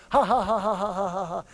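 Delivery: lightly voiced taunting laugh; mock mean laughter. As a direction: imitate siblings laughing at you. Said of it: "they would laugh over that".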